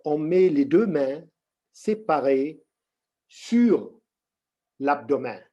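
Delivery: slow, measured instructions with long pauses; unhurried meditation teacher, pausing often; guided meditation. Real, not acted. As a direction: guide them into the posture slowly, phrase by phrase.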